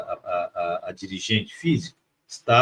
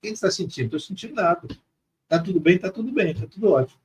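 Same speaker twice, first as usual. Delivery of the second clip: lightly acted, higher-pitched carefree replies; playful relief; 5 semitones higher, 4 dB quieter, faster than usual. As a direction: retell it lightly, voice lifted in relief. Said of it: "Saí, saí rindo". (alívio brincalhão, levemente encenado)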